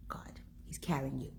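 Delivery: soft whisper of reassurance; whispered comfort. Real, not acted. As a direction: lean in and whisper it. Intimate comforting aside in sermon.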